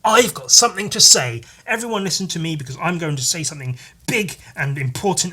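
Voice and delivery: high, hammed-up proclamation from a high horse; mock self-important. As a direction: announce it pompously, mocking yourself. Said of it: "a high horse and be like".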